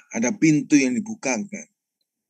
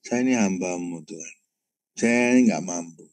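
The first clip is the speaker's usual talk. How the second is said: retold prayer; 3 semitones lower than usual. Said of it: "Saya cuma doa".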